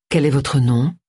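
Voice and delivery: lightly husky, alluring question; understated sultry huskiness; seductive husky voice. Acted. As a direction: ask with a hint of seductive rasp. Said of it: "d'une séduisante voix rauque".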